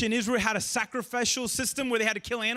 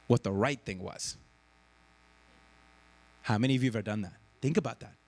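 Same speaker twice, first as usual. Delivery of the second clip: usual speaking voice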